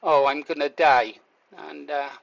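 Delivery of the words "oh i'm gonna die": low, matter-of-fact acceptance; calm resignation. Shown as a demonstration. Man recalling choking, voicing his actual calm thought, resigned. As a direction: say it calmly, almost shrugging. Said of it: "I thought".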